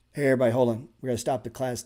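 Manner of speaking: loud sarcastic call to halt the class; booming fake-polite hold everything; mock announcement. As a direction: call the room to order with mock grandeur. Sarcastically halting class for question.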